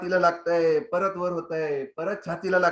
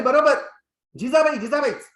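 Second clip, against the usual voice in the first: much higher and louder triumphant teacher; delighted approval; 8 semitones higher, 6 dB louder than usual. Acted. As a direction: cheer the right answer. (खूश मास्तरांचा उंच, मोठा शाबासकीचा आवाज)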